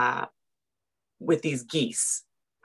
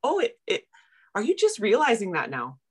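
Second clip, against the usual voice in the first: mock incredulous; 6 semitones higher than usual. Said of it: "everybody's looking at me going".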